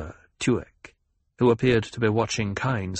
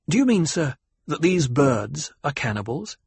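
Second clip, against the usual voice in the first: a touch of probing, higher-pitched question; lightly voiced inquiry, lifted at the start; lightly voiced young challenger; 4 semitones higher than usual. Young master questions the banker at dinner, lightly probing. Paul sets out to draw banker out.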